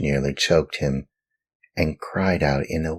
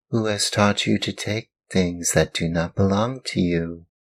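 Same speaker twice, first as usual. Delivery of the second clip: gentle scolding glowworm; 5 semitones higher than usual. Acted.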